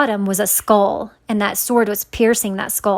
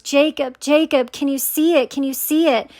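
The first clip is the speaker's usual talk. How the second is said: higher-pitched, mildly pleading; retold crying plea; 5 semitones higher than usual. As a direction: imitate a tearful plea without real sobbing. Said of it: "I was just crying".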